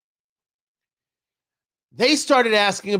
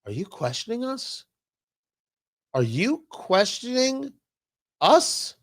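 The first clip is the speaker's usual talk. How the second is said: huffy, offended voice fading low; mock indignant nonprofit; 4 semitones lower than usual. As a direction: play the outraged accused party. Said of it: "responded with an email saying".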